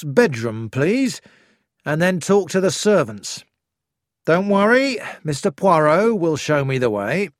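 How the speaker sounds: an inspector taking charge; loud firm inspector. Acted. Inspector giving orders.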